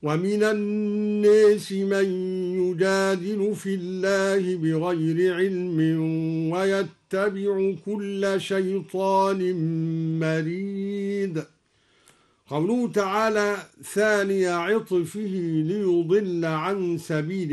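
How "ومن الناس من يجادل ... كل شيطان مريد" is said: measured Quran recitation; slow recitation. Acted. Teacher continues the verse in slow recitation. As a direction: recite slowly and steadily.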